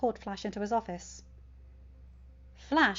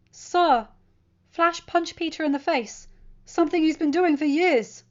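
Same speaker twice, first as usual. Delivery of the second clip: bold; 7 semitones higher, 8 dB louder than usual. A narrator's reading. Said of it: "feeling bold".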